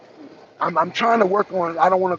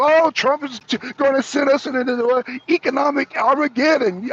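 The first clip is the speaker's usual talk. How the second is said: mocking worried people; 6 semitones higher than usual.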